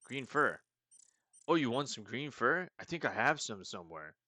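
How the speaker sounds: a friendly burnout rummaging around; stoner voice. Acted. Green meep offering fur to Conrad, spacey stoner voice. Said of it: "like, stoners".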